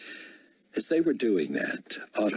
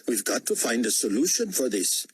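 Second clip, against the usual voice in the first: put-on higher-pitched Indian-accented appeal; 5 semitones higher than usual. A narrator's reading. Cabinet member urging a solution, Indian accent. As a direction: press the point with an Indian accent. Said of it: "someone with an Indian accent said".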